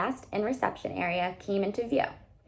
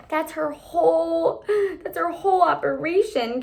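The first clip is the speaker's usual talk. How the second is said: arguing; 8 semitones higher, 4 dB louder than usual. A narrator's reading. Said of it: "Katie argued".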